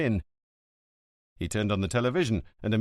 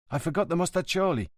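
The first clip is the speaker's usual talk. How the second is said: friend's voice; 8 semitones higher, faster than usual. A narrator's reading. Jejé speaks.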